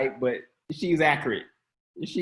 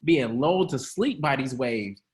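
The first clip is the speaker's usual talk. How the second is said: laughing mock Jesus. Shown as a demonstration. Jesus woken from his nap, laughing annoyed. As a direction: laugh through the complaint about the nap. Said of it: "say it from his chest".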